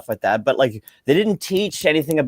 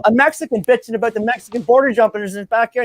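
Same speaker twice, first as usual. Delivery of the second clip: teasing disbelief; 10 semitones higher, 4 dB louder than usual. Retold or imitated. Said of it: "I go".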